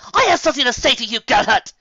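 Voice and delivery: loud, high defiant cry; angry shout. A narrator's reading. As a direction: demand to be heard. Rarity shouting at the griffin.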